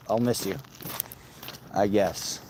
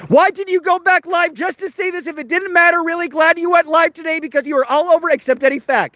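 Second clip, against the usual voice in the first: mock chat voice. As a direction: ham up the viewer's comment, pitched way up. Rereading the hostile chat message.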